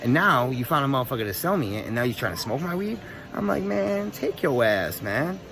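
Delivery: retold protest, pitch climbing; worked-up, incredulous comeback; indignant refusal. Retold quarrel over sharing weed.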